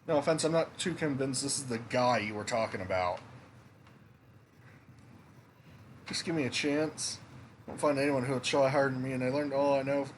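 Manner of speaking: game dialogue in a hint of Scottish; light Scottish accent. Inn staff argue over who runs it, lightly put-on Scottish accent. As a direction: read the characters with a light Scottish lilt. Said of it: "doing this Scottish accent".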